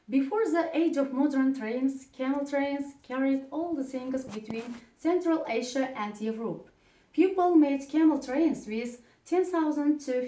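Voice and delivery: steady textbook reading to the class; reading a text aloud. Shown as a demonstration. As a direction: read the passage out clearly for the pupils. Reads text aloud to pupils.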